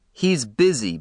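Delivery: curt, irritated brush-off; snapped. Acted. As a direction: cut him off short and sharp. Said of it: "Buck snapped".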